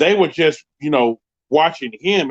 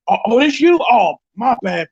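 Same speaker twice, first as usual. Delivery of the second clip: very high, louder nervous backpedal; flustered apology; 10 semitones higher, 4 dB louder than usual. Retold or imitated. Security guard backpedalling to the boyfriend, high and flustered. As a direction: scramble to apologize.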